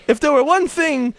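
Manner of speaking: lightly put-on saintly voice; unplaceable saint voice. Saint teaching about prayer in a slightly odd put-on voice. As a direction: preach it a little high, affectedly. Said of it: "don't even know what voice this is".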